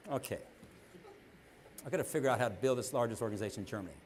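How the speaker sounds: a hint of a man mulling over a grand plan; mock pondering. Pretending to plan the biggest organization in Germany, mock musing quietly.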